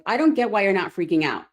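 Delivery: husband marvelling at his calm wife; incredulous husband. Retold or imitated. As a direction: play the amazed husband. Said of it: "My husband's like".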